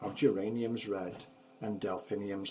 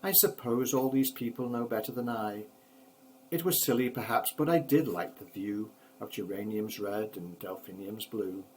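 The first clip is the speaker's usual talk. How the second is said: sighing. Acted. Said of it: "he said with a sigh".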